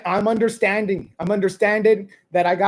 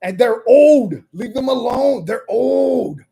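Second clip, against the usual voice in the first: indignant protest; 2 semitones higher, 3 dB louder than usual. Retold or imitated. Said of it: "And I was like".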